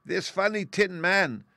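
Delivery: high, loud, slow royal squeak; squeaky mouse queen. A narrator's reading. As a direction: present the rescuer in a tiny regal voice. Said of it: "in a squeaky little voice".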